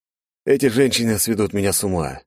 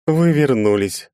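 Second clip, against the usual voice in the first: higher, louder, slow and glad; delighted; 8 semitones higher, 4 dB louder, slower than usual. A narrator's reading. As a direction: greet him with joy. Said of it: "обрадованно произнесла Анфиса".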